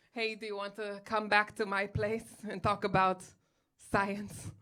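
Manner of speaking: badly faked French accent; a hammy French atheist's come-on; terrible French accent. Atheist inviting her back to talk science, badly faked French accent. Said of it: "your French accent is terrible".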